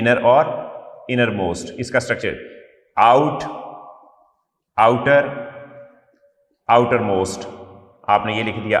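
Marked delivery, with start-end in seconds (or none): 3.0-7.5 dictating. Acted. Teacher dictating word forms.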